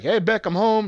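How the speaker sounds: lightly voiced Joe, bright and high; mock cheerful greeting. A friend retelling Joe coming home, high cheerful call.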